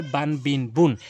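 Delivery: বান বিন বুন read short and quick, no nasal hold; quick clear বান বিন বুন demo; quick tanween reading. Shown as a demonstration. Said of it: "তাহলে কিন্তু দ্রুত পড়বেন এইভাবে".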